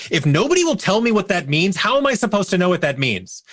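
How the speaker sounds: high, exasperated mock yell; retold yell. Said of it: "I just yelled at him".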